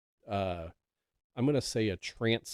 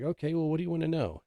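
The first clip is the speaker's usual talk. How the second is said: obliging reply; 7 semitones higher, 4 dB louder, faster than usual. Retold or imitated. Voicing grandfather's obliging reply.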